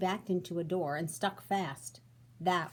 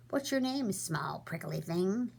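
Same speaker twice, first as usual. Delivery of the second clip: unkindly. Acted. Rhino taunting small porcupine, mocking and unkind. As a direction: sneer down at a small thing. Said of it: "asked the rhinoceros very unkindly".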